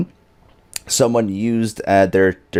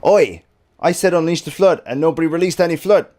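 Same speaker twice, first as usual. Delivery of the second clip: mock scolding; 7 semitones higher than usual. Scolding chat for not raiding.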